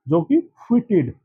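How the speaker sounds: फिटेड said evenly, no stressed syllable; फिटेड flat and even; फिटेड kept light and even; no word stress. Shown as a demonstration. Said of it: "यहाँ पे word stress नहीं देना".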